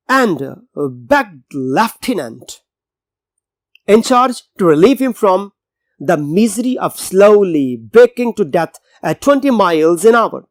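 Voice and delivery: drawn-out, careful reading of the English sentence; slow text reading. Shown as a demonstration. Teacher reading the novel passage to students, slow and deliberate. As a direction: read each word slowly for the class.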